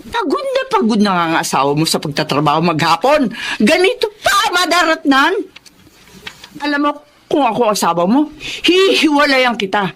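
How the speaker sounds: scolding. Acted. Mother scolding her son over his tired wife, rising reproach. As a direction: scold him, climbing up at the end.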